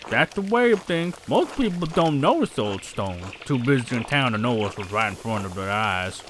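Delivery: lightly voiced local with a put-on accent; slow, matter-of-fact accented character; accented townsperson.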